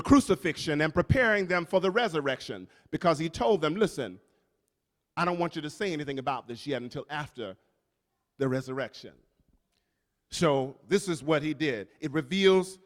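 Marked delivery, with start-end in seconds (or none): 3.7-9.1 hushed Jesus. Acted. Jesus quoted telling disciples.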